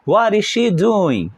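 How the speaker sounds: What is she doing, drawn out slowly; slow model question. Shown as a demonstration. Teacher models the question again, slowly. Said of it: "Vamos repetir?".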